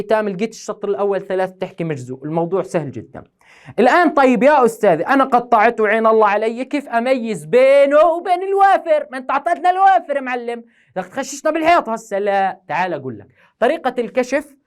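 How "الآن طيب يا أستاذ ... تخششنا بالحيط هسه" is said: student voice. Retold or imitated. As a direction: play the pupil protesting to the teacher. Teacher voices confused student.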